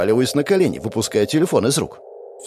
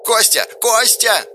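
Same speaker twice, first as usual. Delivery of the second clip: worried yelling; 11 semitones higher, slower than usual. A narrator's reading. Katya yells worriedly down the phone. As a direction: yell his name in a panic. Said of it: "взволнованно орала Катя".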